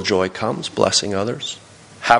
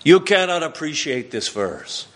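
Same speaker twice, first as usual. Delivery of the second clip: higher-pitched mock French accent; terrible French accent; 5 semitones higher than usual. Quebec friend lecturing English speakers on a verse, bad French accent. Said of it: "sorry for the French accent, terrible".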